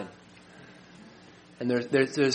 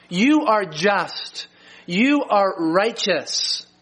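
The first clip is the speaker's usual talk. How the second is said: solemn confession; slower than usual. Retold or imitated. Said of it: "he says".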